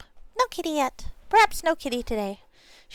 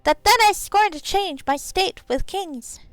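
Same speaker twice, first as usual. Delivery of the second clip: high, slow pixie recital; 7 semitones higher, slower than usual. Pretend. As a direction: finish the verse as a pixie, drawn out. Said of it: "out of practice with this pixie voice".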